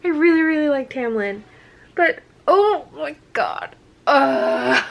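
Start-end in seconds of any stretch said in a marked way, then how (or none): 1.9-4.8 higher, louder swoon; overwhelmed fangirl cry; swooning squeal; excited. Real, not acted. Fangirling over Rhysand.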